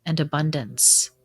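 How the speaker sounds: even, measured reflection with long pauses; gently prompt, then leave space to reflect; guided meditation. Acted. Guide leading listeners through a winter solstice reflection, guided meditation.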